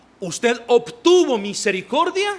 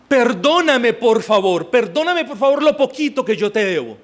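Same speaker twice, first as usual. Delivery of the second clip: pleading; 3 semitones higher than usual. Acted. Brother begging forgiveness, acted.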